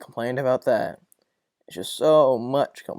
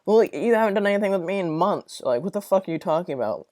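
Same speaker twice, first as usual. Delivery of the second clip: exasperated retort; 6 semitones higher than usual. Retold or imitated. Retort to hall mates.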